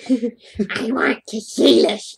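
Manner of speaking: slow, breathy murmur. Acted. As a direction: breathe it out slowly. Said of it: "he breathes".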